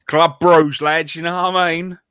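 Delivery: mock nightclub hype voice; nightclub promoter. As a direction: sell it like a bouncer at a nightclub door. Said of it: "You make it sound like a nightclub".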